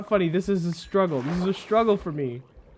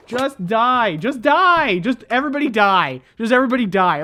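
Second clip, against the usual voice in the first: angry yell; 4 dB louder than usual. Real, not acted. Fighting enemy, yelling.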